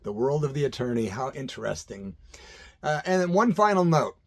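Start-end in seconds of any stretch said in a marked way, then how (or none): 0.0-2.2 amused disbelief. Retold or imitated. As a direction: hush it, half amazed. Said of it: "I'm like".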